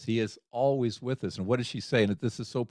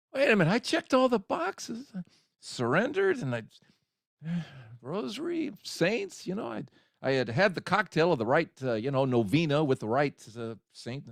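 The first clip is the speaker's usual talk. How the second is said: exasperated disbelief; 4 semitones higher than usual. Retold or imitated. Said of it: "and I'm going".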